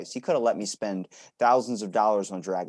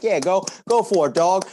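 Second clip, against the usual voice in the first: much higher, louder egging-on voice; hype-man cheering; 9 semitones higher, 8 dB louder than usual. Retold or imitated. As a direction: cheer him on like a reckless hype crew. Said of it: "a bunch of people like".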